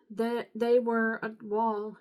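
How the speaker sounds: halting, slow stumble over the words; stumbling misread. Real, not acted. Reader stumbling while reading scripture aloud, halting. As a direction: trip over the start of the line.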